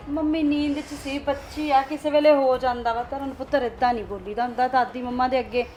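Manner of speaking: mother defending daughter to grandmother, loud. Acted. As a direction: talk over the shouting.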